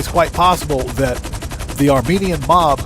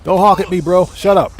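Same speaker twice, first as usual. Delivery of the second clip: angry yelling; 4 semitones higher, 4 dB louder than usual. Acted. Yelling at honking driver.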